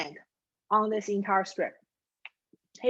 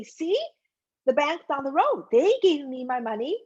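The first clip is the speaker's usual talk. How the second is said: higher-pitched, gloating retort; triumphant boast; 4 semitones higher than usual. Acted. Customer waving cash at the first teller, triumphant boast. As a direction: show off to the one who refused.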